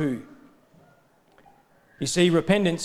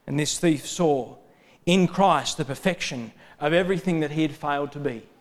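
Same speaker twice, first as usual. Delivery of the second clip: ordinary talk, nothing marked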